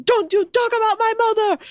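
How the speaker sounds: high, hammed-up outraged yell; Ashton. Angry crewmate in the cab defending his mom, mock scream. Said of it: "Ashton screaming".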